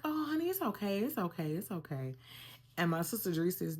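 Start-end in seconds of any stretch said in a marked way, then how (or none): 0.0-2.2 reassuring. Retold or imitated. Laboring wife to husband back with food, high then softening reassurance. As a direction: imitate soothing a partner, pitch easing down.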